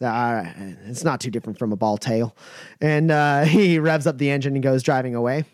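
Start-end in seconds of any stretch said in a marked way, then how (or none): 0.0-2.4 low, fast mutter. Acted. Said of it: "He goes".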